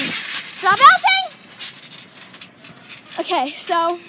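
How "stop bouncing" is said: high, slow, drawn-out yell; loud yell. Real, not acted. Yelled call to stop.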